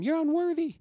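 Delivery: a playful, kind "You're unworthy." to your neighbor; said nicely. Shown as a demonstration. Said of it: "Nicely tell him".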